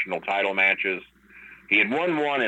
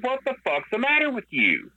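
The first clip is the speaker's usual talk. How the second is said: retold indignant challenge. Man retelling how he talked back to Brock, indignant. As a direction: act out an incredulous challenge.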